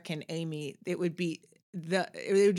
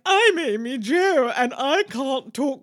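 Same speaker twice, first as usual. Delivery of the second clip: put-on slow, louder, higher posh English accent with a laugh; 6 semitones higher, 6 dB louder, slower than usual. Amy Jo mocking her teen self in RP, hammed-up and slow. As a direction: ham up a fancy RP voice. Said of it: "Mine would have been like".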